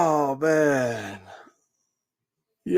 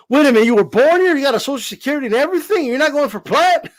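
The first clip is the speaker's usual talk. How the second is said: mock suspicious interrogator; 6 semitones higher, faster than usual. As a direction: quiz him like a border agent. Patriot interrogating a Canelo fan.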